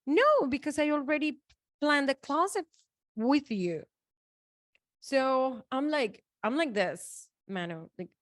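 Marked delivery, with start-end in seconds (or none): 0.1-3.8 retold protest. Arguing with the closet seller.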